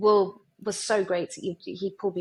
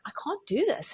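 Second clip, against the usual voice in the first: high-pitched mock protest; comic higher-voiced fluster; retold panic; 7 semitones higher, 3 dB quieter than usual. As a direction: act out nervous refusal, pitched up. Retold panic before interviewing.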